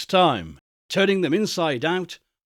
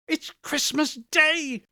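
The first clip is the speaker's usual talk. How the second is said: to himself; 11 semitones higher than usual. Acted. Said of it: "said Scrooge to himself".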